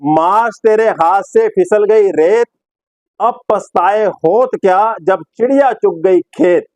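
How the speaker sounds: slow, measured mock-proverb recital; Sidhu. Presenter quoting Sidhu's proverb to viewers, slow imitation. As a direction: declaim it slowly with pauses between phrases. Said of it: "अब सिद्धू क्या बोलेंगे?".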